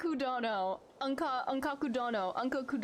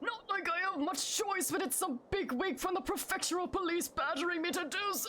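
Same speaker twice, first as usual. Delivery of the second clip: put-on, pitched-up elderly old man voice; 6 semitones higher than usual. Reading a game character's dialogue aloud, in an old man voice. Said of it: "my old man voice".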